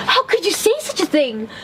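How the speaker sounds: mama duck rebuking the rude duckling; stern mama duck. A narrator's reading. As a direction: scold the chick firmly. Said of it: "said in a stern voice".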